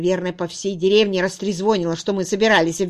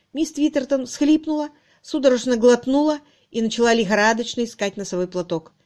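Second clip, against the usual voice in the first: ordinary delivery, nothing marked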